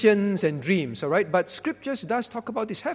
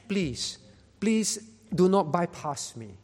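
humble plea; slower than usual. Acted. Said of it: "This is not complaining and accusing God".

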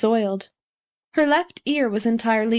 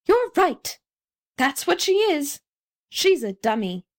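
high-pitched mock shouts; crowd shouting; 5 semitones higher than usual. A narrator's reading. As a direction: call out like excited onlookers, without much volume. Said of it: "The people who had collected shouted".

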